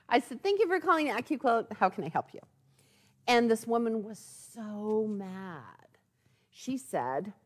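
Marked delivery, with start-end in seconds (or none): 0.4-2.4 quick bright customer service opener; brisk, a bit higher, like answering the company line; recalling how she answered the call, sing-song phone voice; chirpy phone greeting. Retold or imitated.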